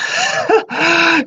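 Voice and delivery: shrill ghostly giggle; a gleeful spirit laughing at the visitors; high eerie cackle. Acted. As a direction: let out a high mad titter. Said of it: "Muse's voice echoes".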